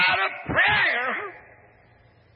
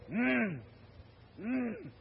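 dying man's moan; 3 semitones lower, 10 dB quieter than usual. Retold or imitated. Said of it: "had the blanket in his hand going".

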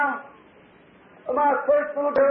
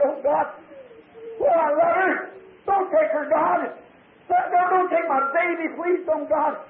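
anguished plea; 3 semitones higher than usual. Retold or imitated. Retelling his plea for dying child.

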